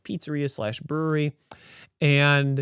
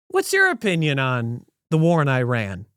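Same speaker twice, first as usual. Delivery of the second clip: flippant; 4 dB louder than usual. Retold or imitated. Diner cuts in to ask the server about politics, flippant. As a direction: toss it out flippantly. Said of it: "I just flippantly threw it to you".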